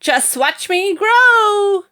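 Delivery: screechy hag voice, very high, loud and slow; crowing hag. A narrator's reading. Grandma to George, screeching slow boast. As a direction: draw it out, boasting wildly. Grandma crows, still growing.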